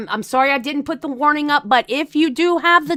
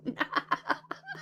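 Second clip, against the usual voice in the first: high, soft trailing giggle; real hushed high chuckle; laughing; 13 semitones higher, 14 dB quieter than usual. Real, not acted. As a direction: let a quiet little laugh escape, high up. Amused while waiting for guests.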